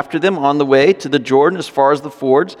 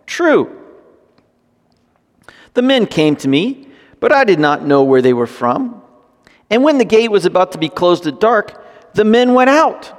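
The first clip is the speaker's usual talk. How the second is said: Rahab's lie; 5 semitones higher than usual. Acted. Rahab's lie voiced in reading.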